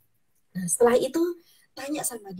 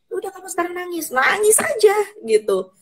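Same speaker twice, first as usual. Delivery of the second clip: high, loud and fast, pushing someone to let it out; urgent, excited coaxing; urging to cry; 7 semitones higher, 4 dB louder than usual. Acted. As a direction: cheer them on: just cry!.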